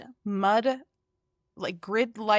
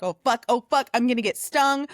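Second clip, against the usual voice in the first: raised, louder retold alarm; mock panic; 3 semitones higher, 4 dB louder than usual. Retelling being swarmed while prying trim, mildly panicked. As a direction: play up a touch of panic.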